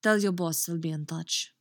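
put-on overshot Russian-sounding accent; heavy-handed Russian-tinged accent; too-Russian accent. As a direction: let the accent slip too far into Russian. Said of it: "that's too fucking Russian again".

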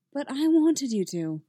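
lightly wheedling; coaxing. A narrator's reading. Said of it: "Padme coaxed".

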